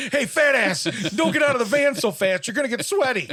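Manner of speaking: loud, high mocking yell; heckling shout. Heckler hollering at a big guy climbing from a van, jeering shout. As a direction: yell it out as a jeer. Heckler yelling at the fat man.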